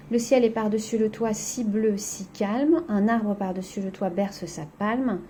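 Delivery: a lightly recited poem line; poem reading. Acted. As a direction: read the verse calmly to the class. Reads the poem aloud.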